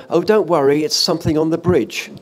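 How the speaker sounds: half-laughing, squeak out a nervous all-clear; squeaky voice. Retold or imitated. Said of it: "you hear my squeaky voice go".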